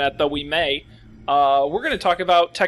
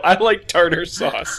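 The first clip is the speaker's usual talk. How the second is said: quoting him through a laugh; laughing repeat; 4 dB louder, slower than usual. Retold or imitated. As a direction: repeat it slowly while laughing. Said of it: "that may be the episode title".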